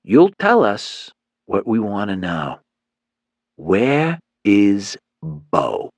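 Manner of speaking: very slow, drawn-out where is Bo; menacing thug. Acted. Leader demands to know where Bo is, slow menace. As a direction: press the question slowly and coldly.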